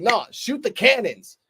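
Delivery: mock a ruthless commander giving the order; slow, offhand retold order.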